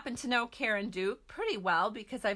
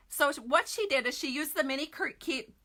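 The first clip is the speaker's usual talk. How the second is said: tongue-tied; 4 semitones higher than usual. Real, not acted. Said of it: "I cannot talk".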